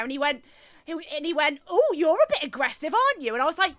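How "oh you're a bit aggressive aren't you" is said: high, taunting retold accusation; mocking imitation. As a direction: mimic his needling question, pitched up. Mocking the man's accusation, acted quote.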